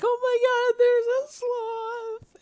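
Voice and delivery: very high, loud, slow gushing squeal; Kristen Bell squealing. Retold or imitated. Imitating Kristen Bell seeing a sloth on Ellen, high loud squeal. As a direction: squeal it like a fan meeting a baby sloth. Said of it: "Because she's like".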